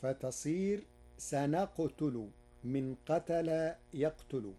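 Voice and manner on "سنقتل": سنقتل said sanaqtulu, without doubling; light qaf-ta. Shown as a demonstration. Teacher giving Warsh's undoubled سنقتل. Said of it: "بتخفيفها".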